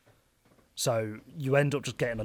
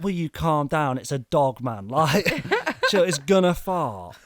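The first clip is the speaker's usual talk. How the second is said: louder, laughing plea to calm down; mock calming, laughing; 2 semitones higher, 6 dB louder than usual. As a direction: talk the bloke down while giggling. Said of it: "and I'm just like".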